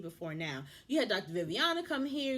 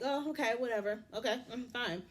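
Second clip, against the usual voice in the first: dismissive. Retold or imitated. Imitating the husband brushing off his wife, dismissive. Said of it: "he's just so dismissive".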